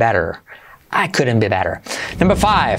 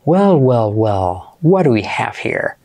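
lightly voiced film baddie, drawn-out wells; mock villain's falling "well, well, well"; movie villain; 4 semitones lower, slower than usual. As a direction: play the villain discovering someone. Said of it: "Como el malo, el malo de la película".

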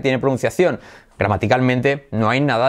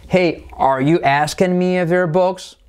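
"Hey, are you asking me if they're books?" slow, high, rising; high, measured query from "Hey" onward; question intonation; 6 semitones higher, slower than usual. Shown as a demonstration. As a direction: lift "books" at the end of the question. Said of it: "entonación sería, como es pregunta".

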